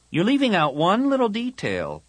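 put-on high, loud girl's challenge; pointed objection. Tahiri challenges her friend's plan, pointed.

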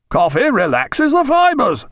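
high, slow, emphatic repeat. A narrator's reading. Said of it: "rather louder".

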